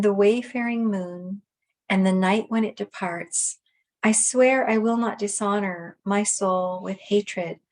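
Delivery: measured recitation, phrase by phrase; even, deliberate litany; prayerful poem reading. Acted. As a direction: read it aloud like an aspiration, pausing after each line. Reads prayer-like poem aloud.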